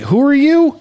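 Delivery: high, incredulous mock comeback; indignant retort. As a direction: challenge the nosy critic, acted out. Retorting to unasked-for wrestling critics.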